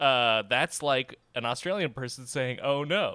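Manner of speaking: plain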